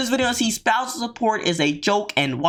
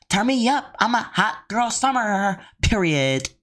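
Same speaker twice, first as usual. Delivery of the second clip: slow, sing-song mocking brag; mock spoiled girl voice; slower than usual. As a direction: ham up a spoiled party girl. Mimicking the spoiled wife.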